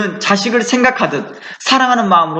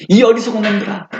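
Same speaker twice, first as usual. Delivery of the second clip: harsh rebuke; 2 semitones higher than usual. Retold or imitated. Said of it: "어조가 굉장히 강해요".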